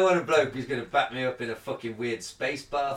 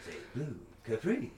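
mock a celebrity host grilling a killer, only lightly; bad William Shatner impression; 5 dB quieter than usual. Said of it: "Sorry, that was a terrible impression".

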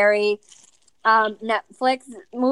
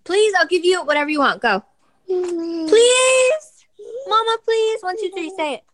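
much higher desperate begging; bribing; 7 semitones higher than usual. Real, not acted. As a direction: plead with the little one. Begging toddler to say it.

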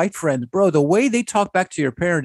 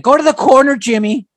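higher, louder mock of a modern parent scolding Jimmy; mocking soft parent; 7 semitones higher, 4 dB louder than usual. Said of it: "nowadays it's like".

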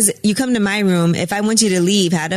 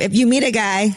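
coughing through the words; choking on popcorn. Real, not acted. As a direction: talk while choking on popcorn. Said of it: "sorry, I'm choking on popcorn".

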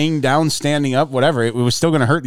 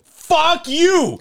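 retold yell. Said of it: "I just yelled".

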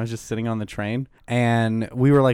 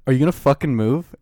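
louder retold challenge; imitated angry demand; 3 semitones higher, 6 dB louder than usual. Stranger confronting seated passenger on train, mock angry demand. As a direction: act out an irritated stranger making demands.

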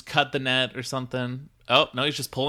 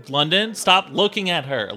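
sharp call; 7 semitones higher, 7 dB louder than usual. Acted. Hissing at friend to stop staring.

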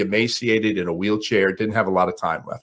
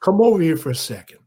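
Ali impression; 7 semitones higher than usual. Ali calls entourage.

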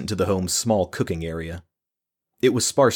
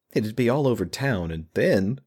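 near tears, voice cracking; words breaking into tears; 4 semitones higher than usual. Acted. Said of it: "her voice broke".

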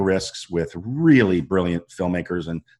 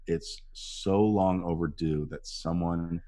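low-key earnest tribute; sincere; 3 semitones lower, 7 dB quieter than usual. Retold or imitated. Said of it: "I just said".

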